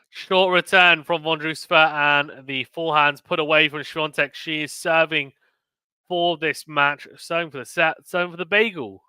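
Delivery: measured tennis commentary, lifting in pitch towards the end; live play-by-play. Real, not acted. Streamer calling Swiatek serving for the bagel, live play-by-play. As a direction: call the point as it happens.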